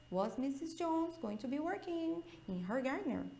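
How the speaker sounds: rising question tune, said softly; question intonation. Shown as a demonstration. Teacher modelling question intonation for the class. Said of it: "E põe entonação aí".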